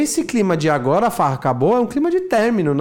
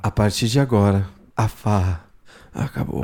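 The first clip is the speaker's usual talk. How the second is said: much lower, dropping away on acabou; S0 echoes the dark take, lower and fading; ominous low delivery; 9 semitones lower than usual. Shown as a demonstration. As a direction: let the threat sink and trail off. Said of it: "É que tem um".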